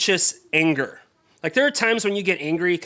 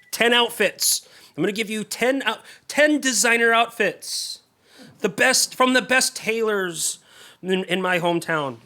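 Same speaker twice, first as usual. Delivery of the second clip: retold angry boast; 5 semitones higher than usual. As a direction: puff up, offended he was snubbed. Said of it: "And so he's just angry".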